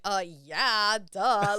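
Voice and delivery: loud, emphatic mock agreement; punchy, keen retort, acted out; really enthusiastic. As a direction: imitate an eager server saying it's obvious. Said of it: "he's really enthusiastic".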